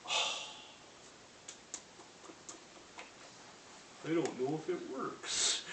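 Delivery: lightly voiced wavering newbie; new recruit faltering before his roommate, slow and unsure; unsure friend. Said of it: "And you go".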